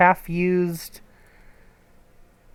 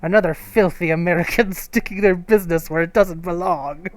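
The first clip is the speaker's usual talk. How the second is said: put-on French accent. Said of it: "I can't really do a French accent".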